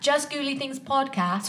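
put-on British accent. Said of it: "say it all in a British accent".

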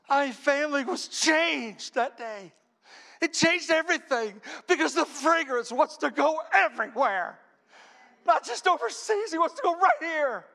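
high, loud, fervent preaching; preacher driving the message home to the congregation, fervent; preaching at full force. Acted. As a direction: lift the room with it. Preacher climaxes the sermon.

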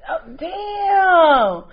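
high loud shocked cry; scandalized oh damn; shocked exclaim. Real, not acted. Reacting to dark skin remark.

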